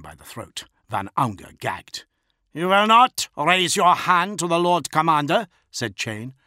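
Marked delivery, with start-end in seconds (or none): 2.5-6.3 high, loud, forceful warning; stern threat. A narrator's reading. Bodyguard holding an officer by the throat, threatening. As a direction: lay down the law forcefully.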